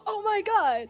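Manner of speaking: high-pitched fangirl "oh my God"; retold excitement. Streamer retells meeting overseas visitors, high-pitched excitement. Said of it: "be like".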